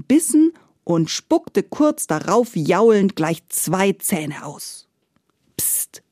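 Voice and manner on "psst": a soft breathy shush; hushing whisper. Acted. Maria hushes the howling giant in a whisper. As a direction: hush him so the child sleeps. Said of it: "flüsterte Maria".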